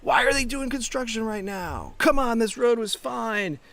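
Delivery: imitating the grumbling ego in traffic. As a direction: whine like a driver fed up with roadwork. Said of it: "you know this voice".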